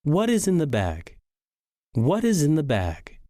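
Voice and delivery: "What is in the bag" with "bag" falling; falling intonation. Shown as a demonstration. Teacher repeating an example question, voice going down. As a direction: drop the voice down on "bag". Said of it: "Our voice should go down".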